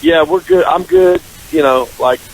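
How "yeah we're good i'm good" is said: very high-pitched mock cheer; breezy reassurance. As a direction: act out being over it, pitched way up. Acts out being over the breakup.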